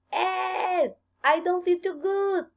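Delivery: high, panicked call for help; alarmed cry. A narrator's reading. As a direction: cry out feeling sick. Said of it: "said the rabbit".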